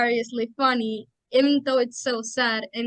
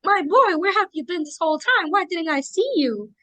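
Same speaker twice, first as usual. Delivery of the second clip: excited fangirl gush; 4 semitones higher than usual. Retold or imitated. Fangirl voicing her own reaction.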